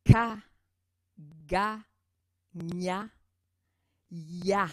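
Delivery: teacher modelling "Ka, ga, gna, ya", Ka very loud; consonant demo. Shown as a demonstration. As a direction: bark each syllable out cleanly. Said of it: "Je vous donne tout de suite un exemple".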